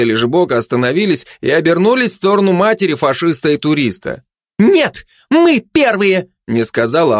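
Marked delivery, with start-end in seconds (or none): 4.6-6.3 slow, high-pitched barked retort; barking. A narrator's reading. Glutton disputes the mother's claim, barking. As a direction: bark it back, stretching each word. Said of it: "а пролаяла обжора".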